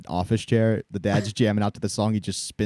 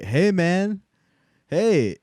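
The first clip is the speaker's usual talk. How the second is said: mock impaired voice; 6 semitones higher, much slower than usual. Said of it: "Gavin's acting like he has cerebral".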